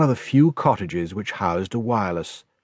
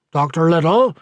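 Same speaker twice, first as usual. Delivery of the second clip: Doctor Little called out louder; 7 semitones higher, 5 dB louder than usual. A narrator's reading. Tom calling to the doctor in the garden, loud call. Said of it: "said Tom loudly".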